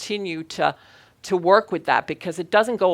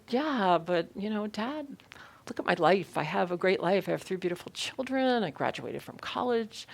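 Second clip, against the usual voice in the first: softer, higher plea to Dad; retold protest; 3 semitones higher, 5 dB quieter than usual. Grown daughter defending her life to Dad, retold soft protest. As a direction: quietly make your case to a dismissive father.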